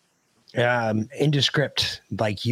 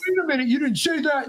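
retold surprise; 12 semitones higher than usual. Kid reacts to old man's threat.

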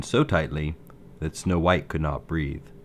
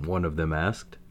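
usual speaking voice

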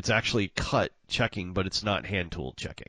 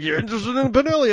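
eager clerk; 7 dB louder, faster than usual. Retold or imitated. Clerk voiced in retold story.

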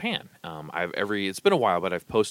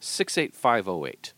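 hammed-up Nebraska Lincoln accent, louder; 6 semitones higher, 6 dB louder than usual. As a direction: lay the Lincoln accent on thick, as a caricature. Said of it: "that's a thick Lincoln ac".

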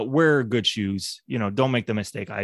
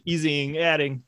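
stiff barking toy soldier; 6 semitones higher, 4 dB louder than usual. Pretend. Soldier straining to ease.

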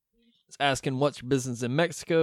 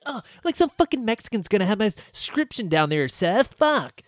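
higher, whining mock complaint; lightly voiced upset Richie; whiny Richie; 5 semitones higher than usual. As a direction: whine it like a sulking kid. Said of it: "Richie's all upset about his glasses".

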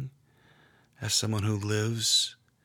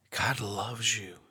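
whispered; slower than usual. Acted. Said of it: "John looks at you and says".

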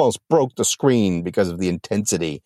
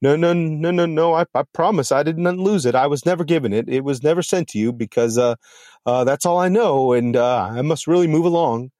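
higher, panicky stammer; frightened mail carrier; 5 semitones higher than usual. Acted. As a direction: beg your way out, scared. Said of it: "absolute fear".

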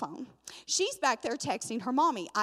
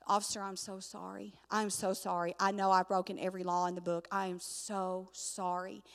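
low, earnest retold apology; sheepish, repeated apologizing to an officer; profuse apology; 3 semitones lower, 4 dB quieter than usual. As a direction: plead quietly, drawing out the final "so sorry". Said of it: "I just kept apologizing profusely".

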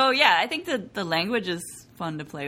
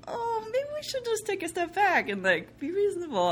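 mock wimpy man; 13 semitones higher than usual. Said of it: "for the man to be like".

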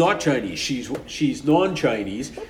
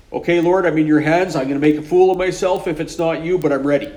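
earnest; 4 semitones higher, 7 dB louder than usual. Retold or imitated. Retold surrender prayer.

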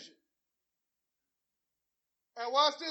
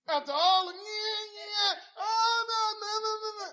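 excited laughing; 9 semitones higher, 9 dB louder than usual. Real, not acted. Laughing protest.

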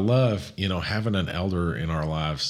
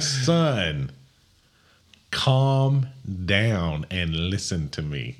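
slow, drawn-out fatherly command; father-in-law slowly calming Moses down; stern father; 2 semitones higher, 3 dB louder, much slower than usual. Retold or imitated. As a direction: settle an excited son down. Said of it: "You're like".

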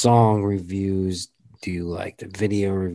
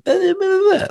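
dismissive blah; 6 dB louder, faster than usual. Retold or imitated. Dismissive filler.

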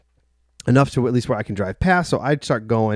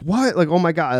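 high-pitched imitated disbelief; mock shocked gasp of words, higher; retold shock; 6 semitones higher than usual. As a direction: re-enact a stunned reaction, pitched up. Girlfriend learns of the gun.

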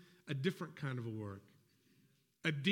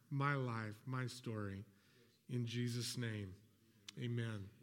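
prayer. Real, not acted. Pastor praying over the congregation before the sermon, hushed and earnest.

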